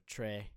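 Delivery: tre said like English "tray"; wrong spelling pronunciation. Shown as a demonstration. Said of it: "that's pronounced not tr".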